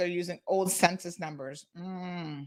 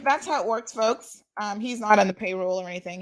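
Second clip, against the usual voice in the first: normal talking voice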